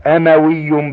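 أموي opening on a short "a", amawi; fatha pronunciation. Shown as a demonstration. Reader lists irregular nisba forms, أموي with fatha. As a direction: say أموي as "amawi", not "umawi". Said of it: "بالفتح".

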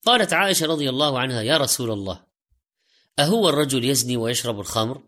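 ordinary talk, nothing marked

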